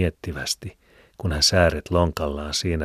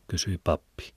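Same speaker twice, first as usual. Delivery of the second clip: usual speaking voice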